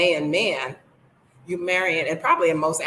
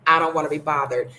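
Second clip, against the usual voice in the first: laughing; 2 semitones lower, 4 dB louder, faster than usual. Shown as a demonstration.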